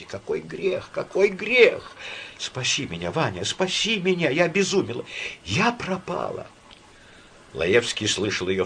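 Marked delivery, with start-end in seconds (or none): 0.0-1.9 put-on sobbing like a child; sobbing lament. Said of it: "она всхлипывала, как ребёнок". 2.4-6.5 high, pleading, near tears; childlike sobbing plea; desperate sobbing plea. Acted. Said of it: "она всхлипывала, как ребёнок".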